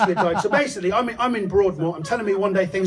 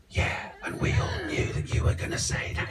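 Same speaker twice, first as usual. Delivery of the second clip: sarcastic retort; 12 semitones higher, 6 dB quieter than usual. Retold or imitated. His sarcastic reply.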